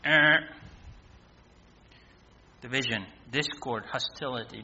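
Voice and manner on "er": short imitated game-show buzzer; wrong-answer buzzer. Preacher rejecting the idea of peace on earth, imitated buzzer. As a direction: buzz it like a failed quiz answer.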